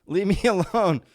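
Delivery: high, loud, laughing through a defiant declaration; mock heroic yell, breaking into laughter; mock defiant shout. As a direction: ham up a brave abductee yelling at aliens. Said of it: "Some guy's going".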